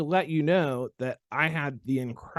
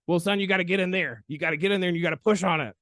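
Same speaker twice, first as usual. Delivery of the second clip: put-on South Carolina accent; 6 semitones higher, faster than usual. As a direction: urge the student on with a touch of South Carolina twang. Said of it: "He was from South Carolina".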